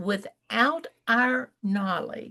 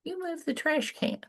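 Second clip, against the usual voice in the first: son quoted, higher and much softer; quoting a puzzled son; lightly voiced grown son, puzzled; son's flat remark; 9 semitones higher, 8 dB quieter than usual. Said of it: "he looked at me and he said".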